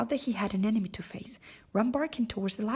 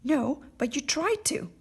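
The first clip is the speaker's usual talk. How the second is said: retort; 6 semitones higher, 3 dB louder than usual. A narrator's reading. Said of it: "she retorted".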